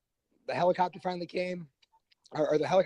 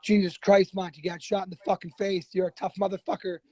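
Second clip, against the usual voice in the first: imitating the sergeant; 5 semitones higher, 5 dB louder than usual. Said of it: "he goes".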